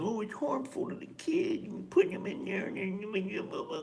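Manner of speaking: high, whiny mock-outrage; mocking critics. Mocking people who call it harmful to the kid. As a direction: sneer it like a scolding busybody. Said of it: "it's like".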